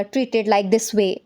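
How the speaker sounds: very slow, word by word; careful dictation pace. Shown as a demonstration. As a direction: read it out slowly for dictation. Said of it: "इसको इस तरह से बोल सकते हो".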